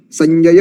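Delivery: संजय with the final a stretched; long vowels drawn out. Shown as a demonstration. Teacher demonstrating a long vowel to students, drawn out. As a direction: say संजय slowly, holding the last vowel. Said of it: "दीर्घ लेके बोलना".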